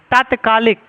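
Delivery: तात्कालिक with a long first aa: taat-kaa-lik; तात्कालिक with a clear long opening vowel; correct pronunciation. Shown as a demonstration. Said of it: "तत्कालिक ना तात्कालिक".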